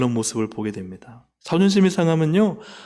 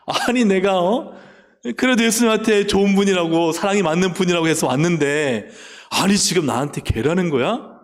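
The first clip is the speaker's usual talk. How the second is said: mock indignation; 4 semitones higher than usual. Woman's imagined offended reaction.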